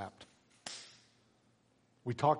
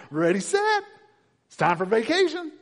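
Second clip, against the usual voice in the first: much higher and louder, sing-song; chirpy vacationer; 14 dB louder than usual. Retold or imitated. Lazy Christians arriving at heaven, chirpy high voice. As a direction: bounce in like a kid on holiday. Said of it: "you and I are gonna show up going".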